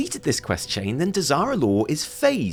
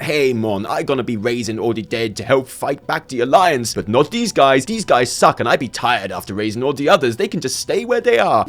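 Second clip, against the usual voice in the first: mock Caribbean-style troll accent; 5 semitones lower, 3 dB louder than usual. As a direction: put on the troll's "mon" accent. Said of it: "yeah, I'm gonna do the accent".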